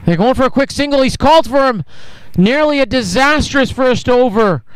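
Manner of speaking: quick excited call of a near run out; excited commentary. Real, not acted.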